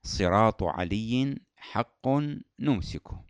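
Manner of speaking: slow, deliberate mnemonic phrase; teaching a memory phrase. Shown as a demonstration. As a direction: spell out the phrase clearly. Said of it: "في جملة".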